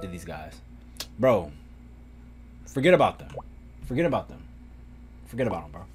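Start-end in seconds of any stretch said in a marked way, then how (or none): none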